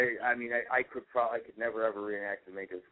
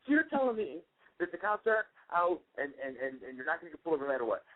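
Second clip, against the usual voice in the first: incredulous father; 7 semitones higher than usual. Retold or imitated. Father voiced in retold argument.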